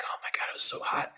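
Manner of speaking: soft, whispery dismay; re-enacted weary disbelief; hushed exclamation. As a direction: mutter it under the breath. Recalls his reaction to the heat.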